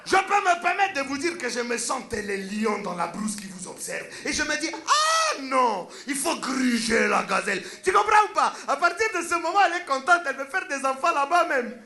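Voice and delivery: put-on woo her with lofty words in the accent; pompous seducer, African accent. The speaker demonstrating his pickup to a woman, pompous African accent.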